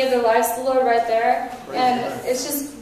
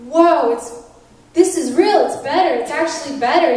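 retold amazement; 3 semitones higher, 5 dB louder than usual.

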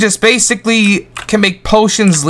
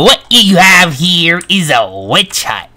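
witch voice. Acted. Held witch voice.

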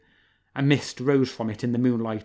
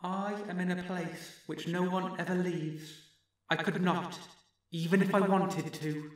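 strange distant voice; 7 semitones higher, 8 dB quieter than usual. Acted. Distant voice from the well.

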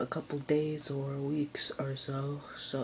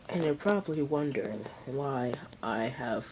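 through a face mask. Real, not acted. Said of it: "why I have a mask over my face".

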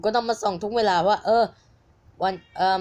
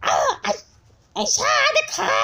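imitating a squeaky altered voice. Vlogger imitates the YouTuber's edited voice, squeaky and high. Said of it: "เวลาเสียงแบบที่เขาอัดแล้วเปลี่ยนเสีย".

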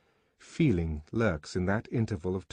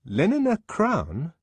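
high, loud questioning echo; raised, querying character voice; 10 semitones higher, 6 dB louder than usual. A narrator's reading. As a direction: throw the name back as a question. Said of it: "echoing the assistant predestinator's question".

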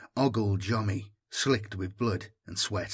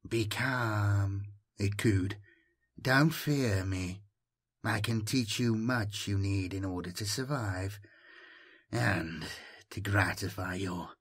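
caressing voice; 2 semitones lower, 3 dB quieter than usual. Acted. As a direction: coax him gently, almost cooing.

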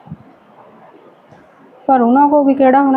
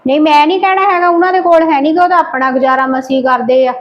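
higher, rushed flat refusal; fast heated refusal; 4 semitones higher than usual. Acted. Wife refusing to call her brother, fast and heated.

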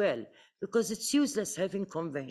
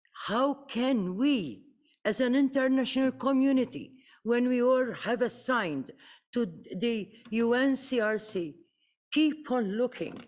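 higher and louder, pressing the question; impassioned plea; 5 semitones higher, 3 dB louder than usual. Real, not acted. Panelist pleading to the international community, rising impassioned. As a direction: rise up with urgent outrage.

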